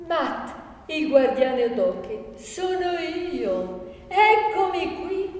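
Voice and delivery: high, slow, savoured announcement; gloating self-introduction, rising in pitch; triumphant reveal. Acted. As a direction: draw out the reveal, pitch lifted. Matt triumphantly reveals himself to Dobroghi.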